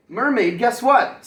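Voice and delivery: bright call, pitch jumping up; eager to share big news; excited. Acted. Narwhal calling out to Mermaid, excited.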